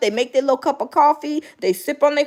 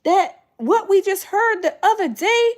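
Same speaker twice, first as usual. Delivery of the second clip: confused; 5 semitones higher than usual. Retold or imitated. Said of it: "I was like".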